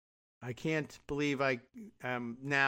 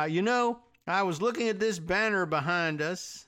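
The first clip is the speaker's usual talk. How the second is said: higher, louder mock politician voice; hammed-up folksy senator; imitating the senator; 4 semitones higher, 3 dB louder than usual. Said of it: "I don't know what her accent sounds like".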